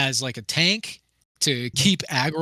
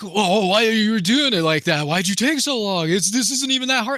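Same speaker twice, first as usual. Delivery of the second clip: put-on angry yelling, higher; 6 semitones higher than usual. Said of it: "scream at me through the damn chat window".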